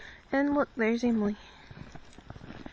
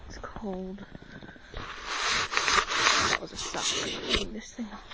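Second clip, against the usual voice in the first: whispering; 2 semitones lower than usual. Real, not acted. Whispering in snow.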